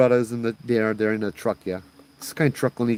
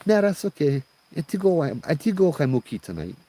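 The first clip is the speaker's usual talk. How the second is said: put-on insistent old auntie; 8 semitones higher than usual. Old lady inviting herself into the truck, high auntie voice.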